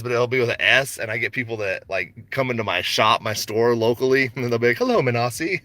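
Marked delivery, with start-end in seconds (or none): 4.8-5.6 "Menassi" as meh-nah-SEE, pitched up; higher greeting, "Menassi" ending in a stressed see; mistaken French reading. Retold or imitated. Customers misread his name, greeting "Menassi" with a French-style see ending. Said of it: "they think it's French".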